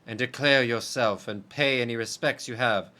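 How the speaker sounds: lightly voiced rite leader. A hint of a ceremonial judge. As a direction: call the exile forward gravely.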